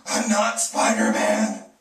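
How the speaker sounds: loud, slow exasperated denial. Acted. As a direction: spell it out, fed up. Exasperated insistence.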